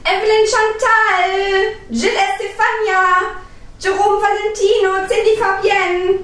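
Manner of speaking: put-on calling kids to dinner. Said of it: "ruft die Kinder in die Küche".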